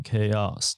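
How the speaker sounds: "chaos" said slowly, with a hard K opening; pronunciation shown. Shown as a demonstration. Host shows how the CH word is read, "chaos" with a K sound. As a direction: say "chaos" carefully, CH as K. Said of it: "可是它是念成".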